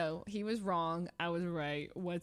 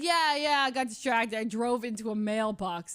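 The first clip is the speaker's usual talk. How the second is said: casual shrug; 2 semitones higher, 6 dB louder than usual. Retold or imitated. Rami's casual quoted excuse.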